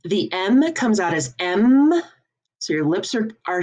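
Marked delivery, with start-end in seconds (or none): 0.3-0.7 "M" as "emm" with held m; strong M. Shown as a demonstration. Teacher showing smushed lips, strong "emm". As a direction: hum the end of "M". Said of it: "a lot of strong letters".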